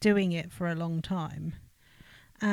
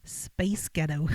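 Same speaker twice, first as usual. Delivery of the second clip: slow, careful try at an American accent; attempted American accent; 4 semitones lower, slower than usual. Shown as a demonstration. Co-host copies the trick phrase slowly, attempted American accent. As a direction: draw out Space Ghetto in a tentative American accent. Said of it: "gotta be in an accent".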